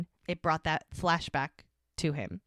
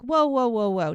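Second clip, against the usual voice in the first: halting protest; 5 semitones higher, 7 dB louder than usual. Retold or imitated. Runner halting the man who ghosted her.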